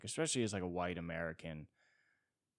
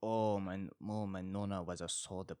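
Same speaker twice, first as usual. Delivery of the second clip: bad Italian accent. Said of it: "kicked off S N L with that accent".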